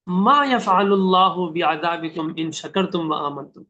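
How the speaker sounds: slow, loving recitation of the verse; tender recitation. Shown as a demonstration. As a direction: recite it as a gentle plea. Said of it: "اللہ تعالیٰ بڑے پیار سے سمجھا رہے ہیں". (پیار بھری آہستہ تلاوت)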